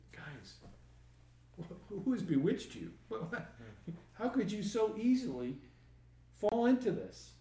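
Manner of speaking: feisty rebuke. Retold or imitated. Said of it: "There's that feistiness again".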